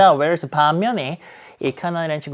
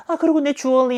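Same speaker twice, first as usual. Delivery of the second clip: fretting wife; 10 semitones higher than usual. Retold or imitated. Mock whine of a worried wife. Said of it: "하면서 뭐라".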